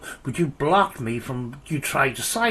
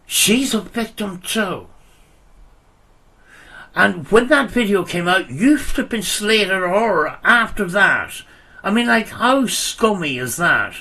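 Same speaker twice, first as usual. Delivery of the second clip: raised voice, outraged; indignant rant; 4 semitones higher, 4 dB louder than usual. Real, not acted. Defending victim in heated argument.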